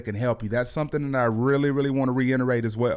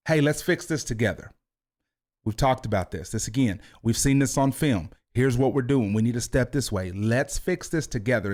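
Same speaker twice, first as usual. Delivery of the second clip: calm coaching tone. Shown as a demonstration. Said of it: "you hear the calmness in the tone".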